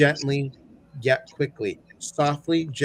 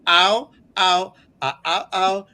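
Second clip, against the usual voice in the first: in pain; 4 semitones higher, 5 dB louder than usual. Real, not acted. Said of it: "almost frozen shoulder".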